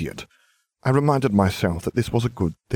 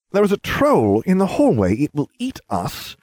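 1 alarmed warning; 9 semitones higher, 3 dB louder than usual. A narrator's reading. Warning of the troll.

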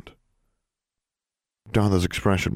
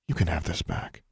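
soft, cold and quiet; icy, controlled hush; 6 dB quieter than usual. A narrator's reading. Alexandra offering the coin back, soft cold voice. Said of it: "in a very soft voice".

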